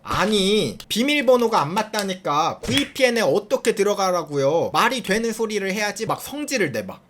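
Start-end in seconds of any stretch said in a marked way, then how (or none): 0.0-6.0 hammed-up caller losing his temper; mock angry rant. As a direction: play the irritated caller, half-serious. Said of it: "바로 노발 대발. 갑자기 화를 내면서". (가볍게 흉내 낸 화난 목소리)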